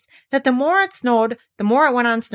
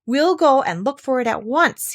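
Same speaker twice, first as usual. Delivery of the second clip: eager call, a bit louder; 6 semitones higher, 5 dB louder than usual. Acted. Christopher Robin calls out to Eeyore, eager and loud. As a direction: call across to the donkey. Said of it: "he called out to Eeyore".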